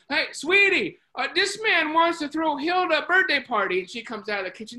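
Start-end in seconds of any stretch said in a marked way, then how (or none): 0.1-3.8 imitated yell through to the next room; yelling to someone. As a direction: call out high and loud to the kitchen. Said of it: "he yells into the kitchen".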